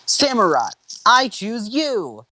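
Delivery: high, drawn-out trainer's call; excited high-pitched summons, last word held long; yelled battle call. A narrator's reading. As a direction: call out your fighter, stretching the words. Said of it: "Ash yelled as he threw".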